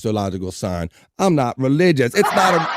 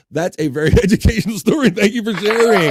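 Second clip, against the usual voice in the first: mock gushing praise; 8 semitones higher, 6 dB louder than usual. Mock praise after crack story.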